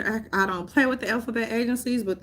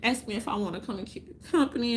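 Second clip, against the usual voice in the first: mock sweet talk; 3 dB quieter than usual. Ex boyfriend praised in soft mock-tender voice. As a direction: lightly sweet-talk the ex, softer. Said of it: "And I'm like".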